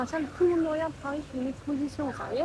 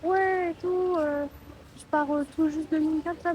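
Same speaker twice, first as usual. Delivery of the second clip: imitating the driver; 4 semitones higher, 4 dB louder than usual. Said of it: "Il me fait".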